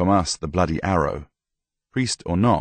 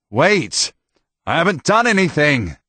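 raised, higher pleading cry; higher, louder desperate protest; desperate shout; 10 semitones higher, 5 dB louder than usual. Acted. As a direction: shout to be heard over a mob. Mob attacking Tomas.

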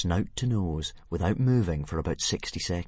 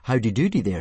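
cheery Dragonese greeting; 3 semitones higher, 5 dB louder than usual. Acted. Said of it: "This should, of course, read".

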